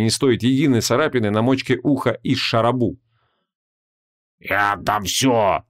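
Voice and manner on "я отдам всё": slow, dejected demon voice; glum demon. A narrator's reading. Defeated demon glumly offers a ransom. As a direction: give in with gloomy resignation. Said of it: "уныло произнёс демон".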